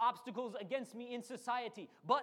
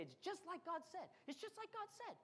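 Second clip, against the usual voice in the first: excited spies; 9 semitones higher, 7 dB quieter than usual. Retold or imitated. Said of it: "these twelve spies come back and they say".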